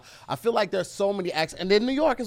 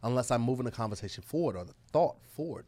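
speaking with purpose; 3 semitones lower, 5 dB quieter than usual. Pretend. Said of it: "I'm speaking with purpose".

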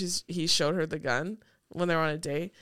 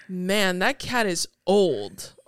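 flat, slow, unbothered; monotone deadpan; 3 dB louder, slower than usual. Retold or imitated. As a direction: say it with zero feeling. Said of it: "his just completely monotone disposition".

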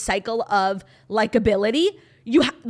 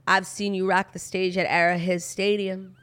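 lower-pitched mock of "I've seen you rock the stage"; "I've seen you rock the stage" in a lower, mocking lilt; mimicking Travis's intonation; 4 semitones lower than usual. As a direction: lightly imitate his cringey intonation on "rock the stage at Arrowhead Stadium". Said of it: "And his intonation, too".

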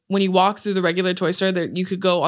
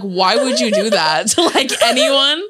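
laughing, incredulous question; baffled and amused, voice lifting; retold shock; 3 semitones higher, 3 dB louder than usual. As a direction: relive the disbelief through a laugh. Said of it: "being, like, so in shock".

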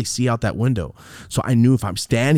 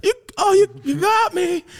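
mock cry; 3 dB louder than usual. Mock crying high voice.

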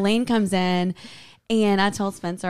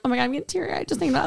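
rushed, higher imitation of getting choked up; retold weepy rush; mock teary; 4 semitones higher, 4 dB quieter, much faster than usual. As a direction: gush it quickly as if tearing up. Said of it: "I was crying and Elaine was crying".

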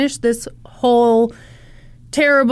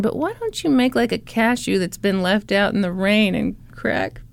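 good cop coaxing. Retold or imitated. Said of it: "good copping it up".

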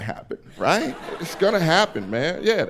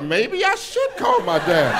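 talked into it; 5 semitones higher, slower than usual. Retold or imitated. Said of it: "I was like".

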